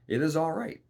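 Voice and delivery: put-on the little man eagerly soothing the desperate girl, high and loud; little man reassuring. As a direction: chirp it out like an eager little creature.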